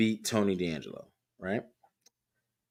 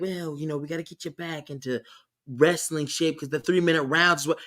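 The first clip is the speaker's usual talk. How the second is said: softer, badly faked Italian accent; terrible Italian accent; 3 semitones higher, 3 dB quieter than usual. Wrestler's family urging him back into shape, terrible Italian accent. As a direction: attempt an Italian accent and miss. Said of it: "terrible accent".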